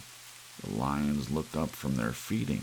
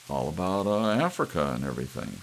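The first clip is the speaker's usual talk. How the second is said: false joviality; 4 dB louder, faster than usual. Acted. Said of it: "with false joviality".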